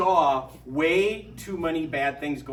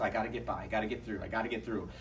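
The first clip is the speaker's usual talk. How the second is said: weary drudge; 6 semitones lower, 8 dB quieter, faster than usual. Retold or imitated. Voicing weary everyday people.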